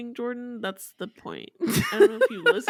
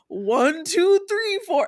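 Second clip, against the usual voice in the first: dad's put-on white voice, higher pitched; imitated white voice; 7 semitones higher, 3 dB louder, slower than usual. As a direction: mimic Dad counting in an unnatural white voice. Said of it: "He's doing his white voice".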